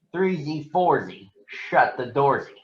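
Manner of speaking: teasing jump-rope rhyme; mock the little sister; mocking sing-song. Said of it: "a mocking tone".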